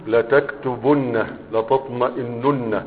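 لتكتبن and لتطمئنن said slowly and softly, nuns held; slow model. Shown as a demonstration. Teacher demonstrating the pattern slowly. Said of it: "على نفس الوزن".

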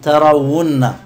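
ترون said loudly as tarawunna, held double n; voweled waw form. Shown as a demonstration. Teacher shows what tara becomes, loud tarawunna for ترون. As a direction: punch out "wunna" in ترون. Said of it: "إيش تصير؟".

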